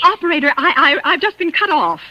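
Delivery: flustered stammer. Acted. Stammering shock to operator.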